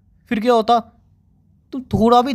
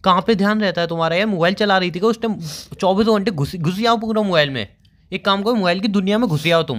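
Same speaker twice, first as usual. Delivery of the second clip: worried, raised-voice telling-off; exasperated scolding. Real, not acted. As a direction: tell them off for being careless. Scolds her for being careless.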